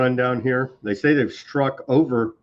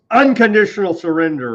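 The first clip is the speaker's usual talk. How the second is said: Trump; 8 semitones higher, 7 dB louder than usual. Retold or imitated. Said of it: "and then he yells".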